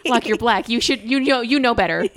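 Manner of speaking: incredulous, rising in pitch and volume; playfully scandalised scolding; mock indignation. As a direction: build from disbelief to amused protest. Acts out her indignant reaction.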